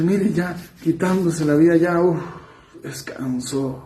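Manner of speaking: voz tentadora que se apaga, más suave al final; voz del enemigo. Acted. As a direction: susurra la tentación con calma engañosa. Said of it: "donde el enemigo les dice". (enemigo que tienta en voz baja)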